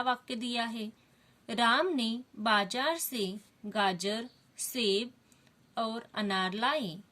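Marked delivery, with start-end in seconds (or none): 1.5-7.0 slow dictation read with pauses at commas; slow careful reading. Shown as a demonstration. Teacher reading the sentence slowly to pupils. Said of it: "अगर मैं यह वाक्य ऐसे पढूं तो".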